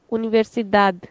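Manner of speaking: "universidad" ending on a plain d; European pronunciation. Shown as a demonstration. Teacher showing students the European version, ending in plain D. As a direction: finish "universidad" with "dad", not "dadj". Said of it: "In European, we'll say".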